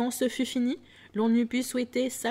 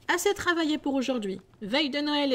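hearty announcement; 6 semitones higher than usual. Acted. Fezziwig cheerfully announcing holiday.

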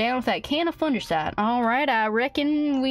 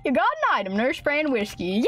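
ordinary talk, nothing marked

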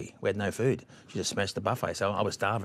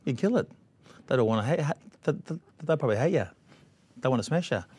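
higher, mock wife urging him on; imitating the ex-wife; 5 semitones higher than usual. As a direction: pitch it up as his wife pushing him to go. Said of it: "So the ex-wife said".

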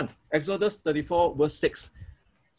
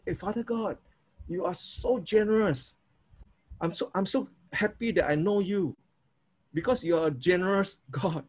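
prayer; 3 dB quieter than usual. Shown as a demonstration. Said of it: "you always say".

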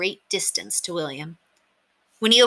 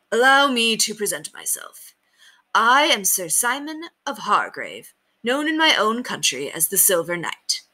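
high, stately knightly voice; ceremonious little knight, pitched up; proud knight; 4 semitones higher than usual. A narrator's reading. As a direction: present yourself grandly, drawing out the name. Knight introduces himself formally.

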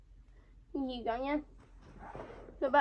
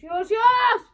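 urgent shout; 8 semitones higher, 10 dB louder, much slower than usual. Real, not acted. Urging to stop filming.

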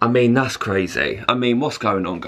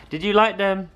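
higher, sing-song pet-talk voice for Did you like them; talking to the dog; 6 semitones higher than usual. Real, not acted. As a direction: ask it sweetly as if to the dog.

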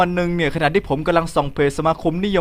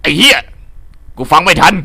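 mock outburst; 6 dB louder than usual. Overwhelmed by the fast rap.

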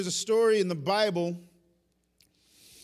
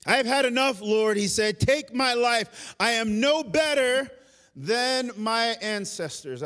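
raised, emphatic cry to God; desperate plea; 3 semitones higher than usual. Acted. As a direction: cry out that you cannot go on, stretching the words. Elijah's despairing prayer, acted out.

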